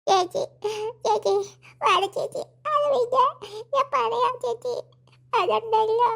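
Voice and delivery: tearful, halting plea; crying. Acted. Sobbing girl about to confide in her sister, tearful. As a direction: stretch the words out through sobs. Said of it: "എന്തിനാ മക്കള് കരയണേ".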